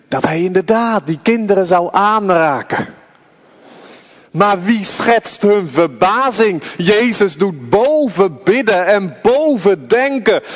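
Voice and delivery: rapturous sermon storytelling; full-force preaching. Acted. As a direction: paint the scene with wonder and fervour. Preacher's impassioned gospel narration.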